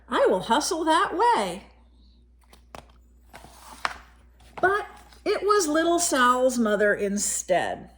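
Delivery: put-on gentle read-aloud voice for a child; story narration. A narrator's reading. Reading a picture book to a child, gentle storytelling. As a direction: tell it like a bedtime picture book.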